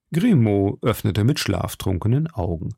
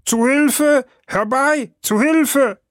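high-pitched panicked yell for help; shrill, frightened servant calling for rescue; cry for help; 4 dB louder, slower than usual. A narrator's reading. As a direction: cry out as if facing a murderer. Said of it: "und schrie".

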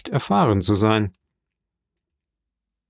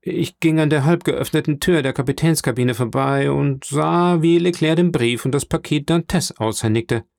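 lightly voiced schemer, higher pitched; a hint of an embarrassed informer justifying himself; flustered Danglars, explaining himself; 4 semitones higher than usual. (leicht angedeuteter ertappter Intrigant, höhere Stimme)

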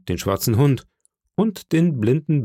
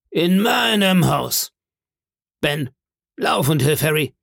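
indignant cry; 5 semitones higher than usual. Acted. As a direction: exclaim in outrage, then send help. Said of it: "rief Silver".

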